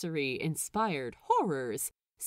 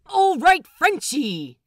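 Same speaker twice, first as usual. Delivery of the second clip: high, loud cheer; 12 semitones higher, 13 dB louder than usual. A narrator's reading. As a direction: cheer him on. Cheering a vote.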